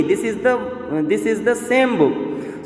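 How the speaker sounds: firm emphasis landing on "same"; forceful emphasis on same. Shown as a demonstration. Teacher repeating the example for students, "same" stressed forcefully. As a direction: stress "same" to prove the point. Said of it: "we are telling here forcefully".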